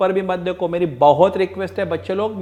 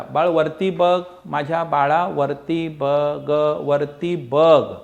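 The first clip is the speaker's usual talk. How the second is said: coaxing; 2 semitones lower, much slower than usual. Real, not acted. Teacher coaxes pupil to look up.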